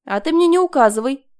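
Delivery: loud defiant snap; snapping back. A narrator's reading. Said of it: "огрызнулась Марина".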